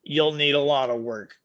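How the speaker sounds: put-on slow, thick Irish accent; lightly done Irish brogue. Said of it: "he said in a thick Irish accent".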